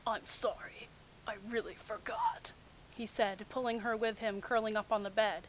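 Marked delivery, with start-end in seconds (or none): 0.1-2.5 sheepish hush. Acted. Guilty Kakashi apologizing.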